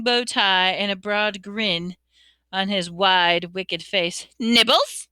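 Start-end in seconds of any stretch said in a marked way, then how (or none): 4.4-5.1 sweetly offered, rising question. A narrator's reading. Poltergeist offering mouldy peanuts, sweet. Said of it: "he said sweetly".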